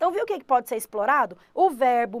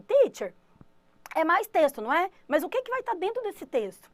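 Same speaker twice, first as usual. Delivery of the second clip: higher, asking on behalf of the class; curious student voice; 5 semitones higher than usual. Pretend. Student asking the teacher about texts, higher and curious. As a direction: voice a puzzled pupil.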